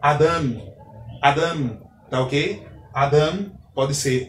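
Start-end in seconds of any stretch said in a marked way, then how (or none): 0.0-0.7 Adam with the final syllable stressed; stress on last syllable. Shown as a demonstration. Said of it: "a sílaba tônica é a última sílaba". 1.2-1.8 Adam repeated with weight on its final syllable; stress on last syllable. Shown as a demonstration. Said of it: "a sílaba tônica é a última sílaba".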